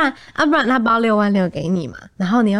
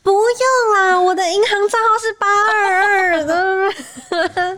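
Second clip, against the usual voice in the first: mock polite refusal; 12 semitones higher, 3 dB louder, much slower than usual. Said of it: "你说".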